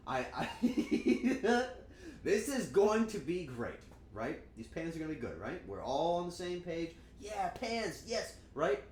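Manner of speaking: bubbly, fast, over-eager self-imitation; mock excitement. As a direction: gush about the new pans. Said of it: "and I'm like".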